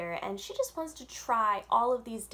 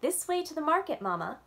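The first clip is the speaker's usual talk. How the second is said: higher and louder, leading the way; proud guide; 7 semitones higher, 4 dB louder than usual. Acted. Yasmin leading Mama with her map, bright and proud. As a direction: show off the way like a little guide. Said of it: "Yasmin said".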